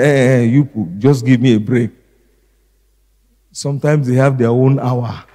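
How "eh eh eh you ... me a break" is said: mock weary mother brushing the child off, a bit louder; tired mother. Preacher imitating a tired mother shooing a child, mildly exasperated. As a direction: play a worn-out mother shooing her kid away, lightly. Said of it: "sometimes when mothers are tired".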